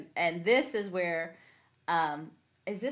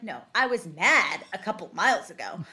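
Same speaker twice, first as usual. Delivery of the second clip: mock angry Sly; 5 dB louder than usual. Cohost retelling Sly's roadside outburst at the kid, mock anger. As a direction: drag out the swear with mild mock fury. Sly says he's pissed.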